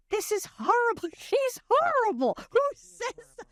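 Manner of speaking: high, incredulous reading of the script; shocked, half-laughing outrage at the lines; appalled disbelief. Retold or imitated. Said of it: "I was like".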